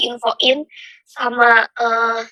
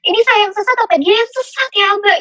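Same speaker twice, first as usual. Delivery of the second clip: higher-pitched anguished question; retold tearful questioning; 7 semitones higher than usual. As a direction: re-enact pleading with God in confusion. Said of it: "Itu aku nangis".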